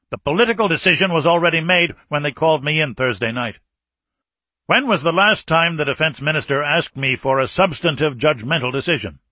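put-on a tense, forceful old general; stern Soviet marshal. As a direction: press the point like an embattled commander.

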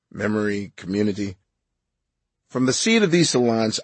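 measured, composed book reading; audiobook narration. Real, not acted. Author reading his food book for the audiobook, measured narration. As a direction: read your memoir evenly, sentence by sentence. Reads own book aloud.

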